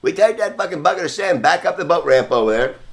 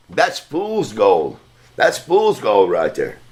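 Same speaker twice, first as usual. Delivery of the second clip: put-on slow, lower, deliberate old-timer lecture; old man's verdict; 4 semitones lower, much slower than usual. Old Roy lecturing the boy about his nugget, slow and low. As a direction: drag each word out like a wise old prospector. Old man voiced in story.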